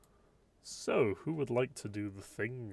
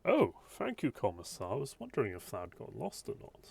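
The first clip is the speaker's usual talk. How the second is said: grateful; 4 semitones higher, 5 dB louder than usual. Acted. GM voices grateful NPC.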